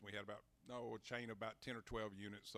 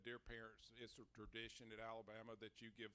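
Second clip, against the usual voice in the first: mock sales letter; 2 semitones higher than usual. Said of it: "said, said".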